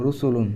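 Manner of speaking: রসুলুন said slowly in careful Arabic; Arabic plural. Shown as a demonstration. Teacher reading the plural to the class. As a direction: say রসুলুন with an u vowel at the start. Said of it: "এটা হয়ে যাবে এরকম".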